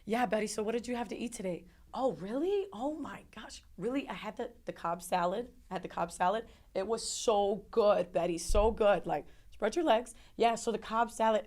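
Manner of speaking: breezy, animated mock small talk; imitating nonchalant chit-chat. Doctor and nurse chatting over a crying patient, nonchalant. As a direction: gush casually about lunch, mimicking oblivious staff. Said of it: "like, nonchalant".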